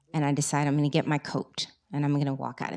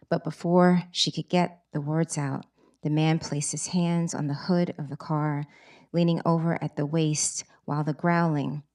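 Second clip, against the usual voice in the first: story reading. Acted. Author reads excerpt from her book.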